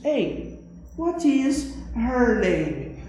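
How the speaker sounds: slow, careful English example for students; slow model sentence. Shown as a demonstration. Teacher modeling English for the class, slow and careful. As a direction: spell out each English word slowly. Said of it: "eu digo".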